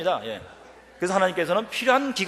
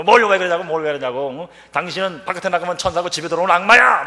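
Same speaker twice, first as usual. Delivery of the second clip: louder retold scolding; wife berating her husband, louder; 3 semitones higher, 8 dB louder than usual. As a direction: scold him like the angry wife.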